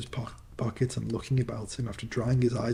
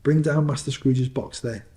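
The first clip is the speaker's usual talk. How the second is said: stern schoolmaster; 5 dB louder than usual. Acted. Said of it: "A terrible voice in the hall cried".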